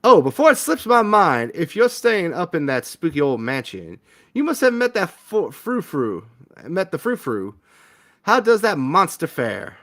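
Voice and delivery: lightly voiced gossipy old lady; Gretchen's voice. Old lady gossiping to the newcomer about the mansion, lightly voiced. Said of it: "I think that's Gretchen talking".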